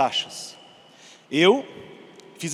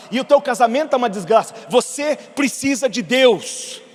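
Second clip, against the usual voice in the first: rising to a loud, fiery rebuke; scolding the immigration officer, getting louder and louder; exalted rebuke; 3 semitones higher, 4 dB louder than usual. Retold or imitated. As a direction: preach at him with growing fire. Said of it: "eu tava meio exaltado como eu tô aqui agora".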